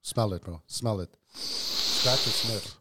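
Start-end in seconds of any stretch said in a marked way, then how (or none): 1.3-2.8 very slow. Pretend. Drawn out joke.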